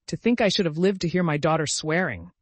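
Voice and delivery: theatrical weepy dismay; sobbing. A narrator's reading. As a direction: wail it, scandalized and grieving. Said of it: "sobbed Missus Frederick".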